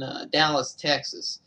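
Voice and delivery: a hint of a southern accent on "Dallas, Texas"; little southern accent. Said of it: "didn't mean to do a little southern accent there".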